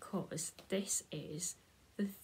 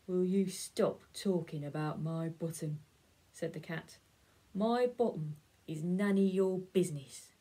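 lightly voiced grumpy cat, a bit louder; 5 dB louder than usual. Cat grumbles at the dog about his bottom, mildly grumpy. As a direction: snap back in a mild huff. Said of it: "Getting a bit grumpy".

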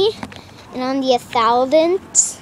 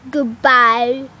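amateur British accent, a bit louder; put-on British "Goodbye"; 4 dB louder than usual. Shown as a demonstration. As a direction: try saying "Goodbye" in British. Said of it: "how do you say, like, goodbye?".

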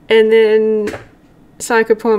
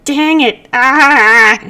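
exasperated yelp, rising louder; frustrated cry; 3 semitones higher, 5 dB louder, much slower than usual. Acted. Character upset with himself, frustrated cry. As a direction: dang it, then a loud groan of "ah".

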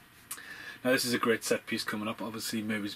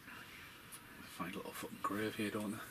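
slow hushed whisper, much softer; 9 dB quieter than usual. Real, not acted. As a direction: whisper so as not to disturb the scene. Hushed while watching grave scene.

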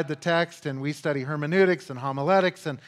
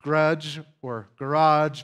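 slow deliberate wordplay; slower than usual. Shown as a demonstration. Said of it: "not the word".

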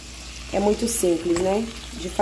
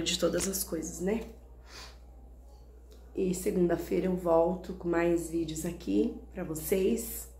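sad and quiet; 6 dB quieter than usual. Real, not acted. Sad quiet closing talk.

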